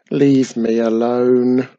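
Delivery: put-on slow grumbling old tree; grumbled. A narrator's reading. The old tree grumbling at the witch to leave. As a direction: grumble it like a grumpy ancient tree. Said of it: "grumbled the very old tree".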